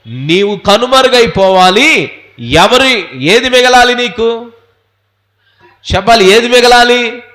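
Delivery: emphatic sermon challenge; impassioned preaching. Real, not acted. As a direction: demand an answer from the pews.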